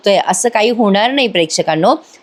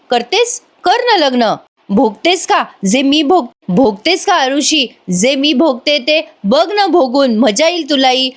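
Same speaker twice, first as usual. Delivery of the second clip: higher-pitched, indignant retold rebuke; acted angry challenge; 4 semitones higher than usual. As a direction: throw taunting questions as an imitated scolding. Retold quarrel, Kavya scolding her sister. (चिडून जाब विचारल्याची नक्कल)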